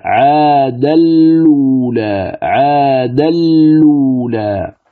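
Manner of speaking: "عاد اللولى" slow and drawn out on a level chant; long vowels in "عاد اللولى", hamza dropped; merged Warsh pronunciation. Shown as a demonstration. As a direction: recite "عاد اللولى" with a doubled lam, no nasal hum. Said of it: "فتلفظ هكذا".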